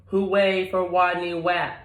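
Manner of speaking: high, loud cheer; the pupils cheer their hero. Acted. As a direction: crowd of rodents cheering. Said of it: "they cried".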